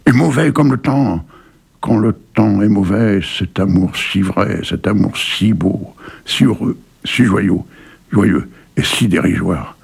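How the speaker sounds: slow, earnest poetry recital; dramatic reading of a love poem. Acted. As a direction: recite it with feeling, letting each line breathe. Recites Prévert's poem Cet amour.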